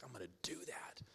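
hushed whisper to himself; whispered inner thought. Retold or imitated. Kid dared by friends, whispering to himself.

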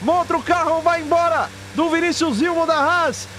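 excited. Real, not acted. Crash on pit straight called live.

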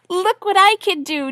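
loud, high, excited call. A narrator's reading. Little duck to the other ducks, calling out. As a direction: call out proudly to show off. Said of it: "Duffel called out to the other ducks".

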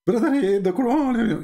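amused mock outrage with a laugh. Real, not acted. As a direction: giggle out the words as you tease. Laughs while mocking.

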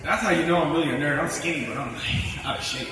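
panting after dancing hard; breathless between words; out of breath. Real, not acted. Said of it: "Damn, I'm out of breath".

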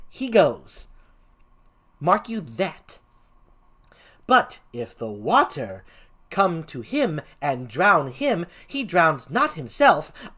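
emphatic, measured comic gravedigger; swooping Shakespearean clown delivery; first clown. Acted. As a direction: lay out a silly proof with relish. First clown's mock-learned argument.

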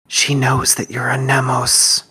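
slow, hushed whisper. Acted. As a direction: whisper it slowly, as a secret aside to a companion. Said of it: "Jericho will whisper to Arwen".

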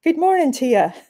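high, chirpy Irish leprechaun voice; chirpy mock-Irish greeting; chirpy little leprechaun. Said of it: "says a chirpy little voice".

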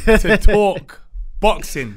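laughing. Real, not acted. Laughs while announcing show.

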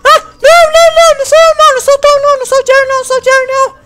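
high, loud panicked denial. Acted. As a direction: blurt it out in a panic. Rat caught, panics denying.

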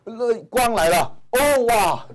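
high, bright cry of joy, hammed up; teacher hamming up joy to explain a word; mock delight. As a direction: gasp with pretend wonder as the light comes. Teacher acts joy at light coming.

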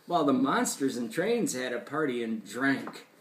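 lilting rhymed storytelling; animated read-aloud to a child; story reading. A narrator's reading. Reads rhyming story.

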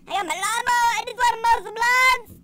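high, excited cartoon voice; silly character voice. Game character wants to mow lawns, silly high voice. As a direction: play the mower rider, high and loud.

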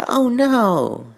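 high, loud yelp of alarm. A narrator's reading. Twilight yelping as her horn glows, high and loud. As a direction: yelp like a steam whistle. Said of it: "she let out a yelp that was so loud".

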